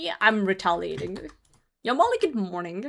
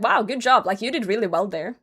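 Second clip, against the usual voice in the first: sincere, impressed congratulations; admiring and encouraging; genuine praise. Pretend. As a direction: praise them as if you mean it. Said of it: "they could have genuinely meant".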